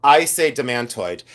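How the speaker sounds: "Demantoid" with stressed "MAN"; "Demantoid", middle syllable like "man"; Demantoid pronunciation. Shown as a demonstration. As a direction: say "Demantoid" as duh-MAN-toid. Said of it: "however you say it".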